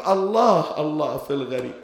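الله cried out loud, then dropping on في الغريب; loud lament cry. Retold or imitated. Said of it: "ولهذا قالت". (نداء حزين مرتفع على الله ثم يهبط)

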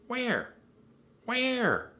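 very high, eager calls; urgent questioning. A narrator's reading. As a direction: search frantically for it. Jack urgently searches.

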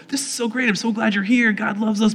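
retold overexcited gushing, pitched high; bubbling over with happy zeal; gushing excitement. Overexcited preaching to the skeptical pastors.

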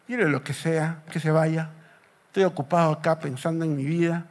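mildly sullen, quiet reply; acted glum brush-off. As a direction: mumble it like someone wanting to be left alone. Sulking Peter waves off the stranger.

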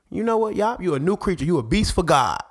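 high-pitched playful hyping; mock hype-up.

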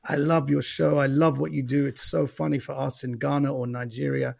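lightly voiced Nigerian accent. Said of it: "Nigerians are always coming up to me".

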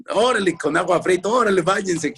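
high-pitched mock scolding; scolding mother. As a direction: imitate mum ordering kids about. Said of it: "siempre nos regañaba".

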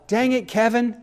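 a light mock shout of Dang it, Kevin; mock yell. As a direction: call it out like an exasperated owner, half joking.

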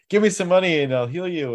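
mock faith healer. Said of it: "these revivals where he gets people".

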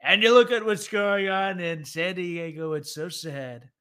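Trump impression. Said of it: "he does the usual".

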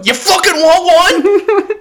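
high, loud, slow mock yell; mock drunken challenge. Drunk and challenging the cat, a hammed-up yell. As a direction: bellow the dare like a drunk brawler. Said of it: "and I go".

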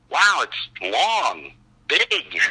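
slow, stretched words; drawn-out reaction. Retold or imitated. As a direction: draw out each word as a reluctant verdict. Underwhelmed verdict on huge script.

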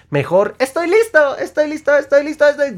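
very high, loud, chirpy cartoon voice; Bob Esponja. Heading out cheerfully each day, high chirpy cartoon voice. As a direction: bounce out the door like a cartoon sponge. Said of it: "Te vas como Bob Esponja".

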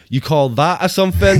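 catchphrase imitation. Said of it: "'cause you always say".

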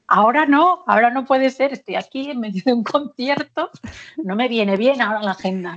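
negativa aguda y fuerte, medio en broma; protesta recreada. Retold or imitated. Retells her panicked refusal of the call. (protesta angustiada recreada, con humor)

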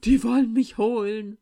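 loud, panicked cry; girl terrified the snakes have come for her. A narrator's reading. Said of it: "Mirschan erbleichte".

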